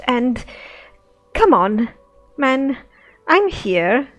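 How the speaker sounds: loud, fed-up protest; exasperated adventurer. Acted. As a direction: complain like you're being played for a fool. Role-playing Sophia to the beggar.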